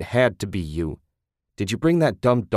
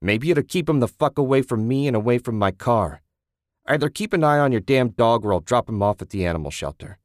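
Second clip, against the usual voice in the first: furious; 4 semitones higher, 3 dB louder than usual. Acted. Susan furious at Ted.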